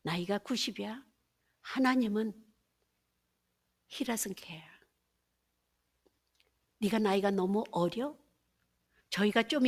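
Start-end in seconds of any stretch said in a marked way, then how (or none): 3.9-4.6 hushed whisper to the listeners; sermon whisper. Acted. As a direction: draw them in with a whisper.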